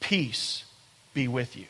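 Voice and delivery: gentle demo of a blessing; soft, lightly hushed blessing. Shown as a demonstration. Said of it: "I want you to say these four words".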